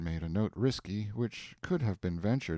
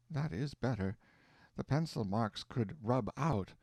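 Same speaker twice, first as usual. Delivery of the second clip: a gentle mother's voice, lightly higher; frail dying mother; 5 semitones higher than usual. Acted. Dying mother speaks tenderly.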